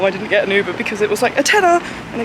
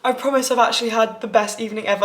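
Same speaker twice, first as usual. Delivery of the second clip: tearful; 2 semitones higher than usual. Real, not acted. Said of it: "I'm really gonna cry my eyes out".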